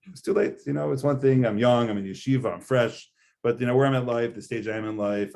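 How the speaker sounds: mock sigh of too late for me; whiny excuse voice. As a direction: play the reluctant penitent making excuses. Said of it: "Claim number one that one might say".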